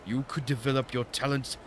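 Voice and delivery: lightly hammed mock-Japanese old master; Temu Japanese accent. Old master offering an apprenticeship, bad Japanese accent. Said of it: "doing some Temu Japanese accent".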